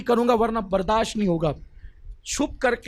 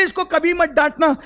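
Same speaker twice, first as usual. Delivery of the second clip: much higher, with the weight on मत; the Prophet repeating his warning, higher and stronger; high emphatic warning; 6 semitones higher, 4 dB louder than usual. Acted. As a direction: push मत high and hard. Prophet warns Umar, repeated line.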